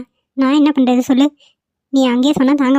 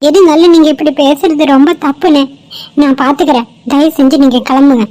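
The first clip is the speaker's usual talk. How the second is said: raised voice, mildly indignant; indignant protest; 4 dB louder than usual. Acted. Girl telling bystanders they are wrong to talk so, indignant. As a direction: push back firmly and louder. Acted quarrel with indifferent bystanders.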